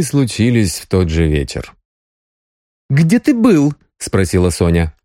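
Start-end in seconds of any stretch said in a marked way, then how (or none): 2.9-3.7 higher, suspicious woman's question; Sonya's voice. A narrator's reading. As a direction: demand where he was. (подозрительный женский вопрос)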